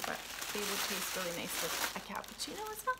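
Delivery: soft whispered aside; hushed confiding whisper. Real, not acted. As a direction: whisper it like a secret. Aside about cannolis.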